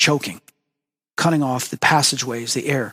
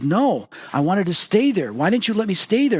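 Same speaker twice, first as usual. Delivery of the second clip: higher-pitched, mildly indignant protest; retold childlike complaint, swinging up in pitch; a little angry; 6 semitones higher than usual. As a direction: protest like a child whose toy was taken. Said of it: "I was getting a little angry".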